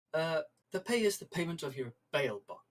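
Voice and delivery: lightly voiced company manager, politely evasive; Horatio Borax. Manager tells crew about their bail debt, lightly played official politeness. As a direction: explain the terms in measured, formal phrases with pauses.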